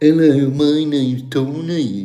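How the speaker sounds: bad Brummie accent, high-pitched and very slow. Talking about the Brummie accent, then trying to do it: terrible Brummie accent. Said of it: "that was a terrible Brummie accent".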